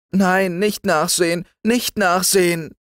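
very high, loud, frightened refusal; a scared child refusing to look in the hole; shuddering and shy. Acted. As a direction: plead against looking, shuddering. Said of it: "rief Liesel schaudernd und scheu".

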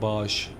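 "Bağış" said as baaj, g swallowed; swallowed-letter dialect. Shown as a demonstration. Driver recalling how some locals say bagaj, "Bağış" as baaj. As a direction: stretch "Bağış" into baaj with no hard g. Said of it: "Bazı harfleri yutarlar ya".

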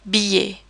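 "billet" said bee-yay; double L as Y. Shown as a demonstration. Teacher shows I double L, "billet" with a Y sound. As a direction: say "billet" in French, Y sound for the L's. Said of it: "like an English Y sound".

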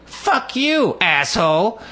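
high mock scream of Fuck you; high retold yell of Fuck you, asshole. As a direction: shriek it like the angry woman. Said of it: "and goes".

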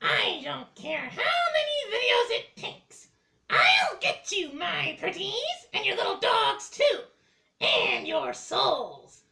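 cackling witch threat; wicked witch voice. Acted.

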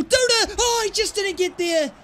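high call falling into disappointment; excited near miss. Real, not acted. Gamer watching his shot barely miss, high excited call. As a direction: groan as it just misses.

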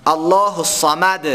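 الله at verse start with a full heavy lam, slow; slow emphatic recitation. Shown as a demonstration. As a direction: restart and thicken the L of الله.

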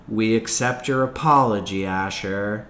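measured, rote class response; recited in unison. A narrator's reading. The class answers Asher's apology, reciting by rote. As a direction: recite it evenly like a drilled class. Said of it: "recited the standard response in unison".

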